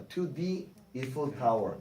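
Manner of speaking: slow "to the Eiffel Tower" with "the" said as "dee"; slow linking demo. Shown as a demonstration. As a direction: say "the" as "dee" before "Eiffel", slowly. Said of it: "D로 발음하죠".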